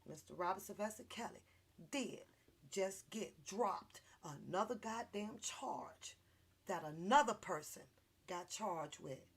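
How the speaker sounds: usual speaking voice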